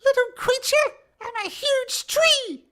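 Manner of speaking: high, slow would-be booming tree; failed deep tree voice. Acted. Tree boasting to the party in a failed deep voice. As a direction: try to sound huge but stay high. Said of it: "trying very hard to talk deeply, but failing".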